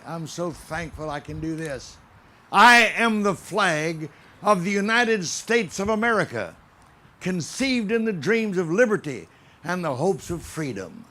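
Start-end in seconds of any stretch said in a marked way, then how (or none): 2.5-11.0 solemn speech in the flag's voice; proud, stately flag monologue; patriotic recitation. Acted. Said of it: "as I bring you a message from the very heart of Old Glory".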